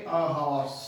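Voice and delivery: "a horse" with the H sounded; H pronounced. Shown as a demonstration. Teacher showing a spoken H, "a horse" with H pronounced. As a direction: say "a horse" with an audible breath of H. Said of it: "एच बोला जा रहा है".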